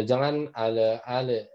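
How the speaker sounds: ale with the lam bounced hard; bouncing lam. Shown as a demonstration. Teacher warns students against a bouncing lam. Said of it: "jangan sampai memantul".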